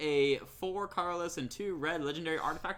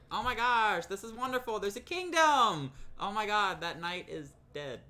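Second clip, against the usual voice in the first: high, breathless fairy-tale wonder; gushing fairy-tale fan; 5 semitones higher than usual. Retold or imitated. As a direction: gush like a wide-eyed fan. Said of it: "It's like".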